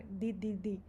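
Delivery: "di" repeated as a clean dee, no dj; "di" with a pure d; hard Spanish di. Shown as a demonstration. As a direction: tap out "di, di, di" with tongue on the teeth. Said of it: "Mas aí o di".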